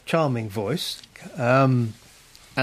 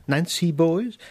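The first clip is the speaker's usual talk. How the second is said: sneering; 7 semitones higher, slower than usual. Acted. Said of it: "Wilcox curled a lip".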